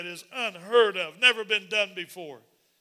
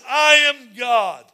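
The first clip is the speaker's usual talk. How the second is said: slow booming shout; 3 semitones higher, 9 dB louder, much slower than usual. Acted. Pastor voicing God declaring himself, slow booming shout. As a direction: boom it out slowly as God.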